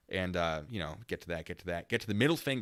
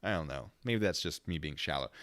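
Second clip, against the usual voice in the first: ordinary delivery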